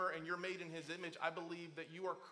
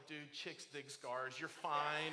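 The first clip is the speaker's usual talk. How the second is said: joking dad; 4 semitones lower, much slower than usual. Retold or imitated. Dad jokes to injured son.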